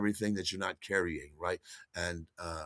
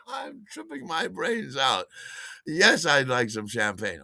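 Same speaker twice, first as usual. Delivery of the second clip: blurted answer; 6 semitones higher, slower than usual. Retold or imitated. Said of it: "I didn't say that out loud".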